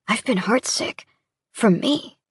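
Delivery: voice breaking. Acted. Sam admits his heartache to her, voice breaking. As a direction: let the voice break on for me. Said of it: "the way his voice breaks".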